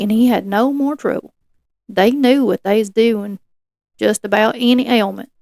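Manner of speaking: put-on light Appalachian hillbilly accent. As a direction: read it with a mild hillbilly accent. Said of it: "You want me to do it in a hillbilly accent?".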